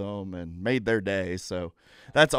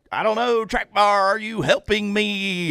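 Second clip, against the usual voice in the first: imitating Dale; 9 semitones higher, 5 dB louder than usual. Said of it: "he'd be like".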